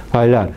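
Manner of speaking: "bailar" with a gentle b; b más suave. Shown as a demonstration. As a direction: barely close the lips on "bailar". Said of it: "una consonante oclusiva más suave". («bailar» con b suave)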